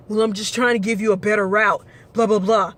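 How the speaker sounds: quick, dismissive mimic of the rider; mocking passenger. Driver mocking the passenger's excuse, quick and dismissive. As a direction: brush it off like the smug passenger. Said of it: "passenger's reply mocked".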